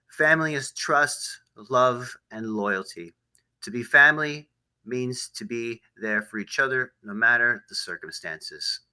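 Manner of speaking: slow, deliberate closing quote; measured sign-off quote, spaced out; solemn quotation. Real, not acted. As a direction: weigh each word of the motto.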